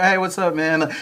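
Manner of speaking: high, bright-pitched casual hello. Retold or imitated. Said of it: "normally it's like".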